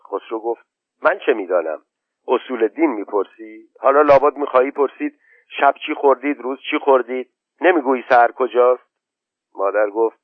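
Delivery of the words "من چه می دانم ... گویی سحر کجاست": put-on higher boyish voice, quickening and cross; a boy losing patience with questions; irritated boy. Khosrow to his mother, fed up with questions, impatient.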